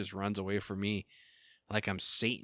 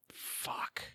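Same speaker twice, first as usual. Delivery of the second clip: breathless whispered fuck; whispered curse; 10 dB quieter than usual. Real, not acted. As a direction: hiss it under your breath, dismayed. Realizes double booking.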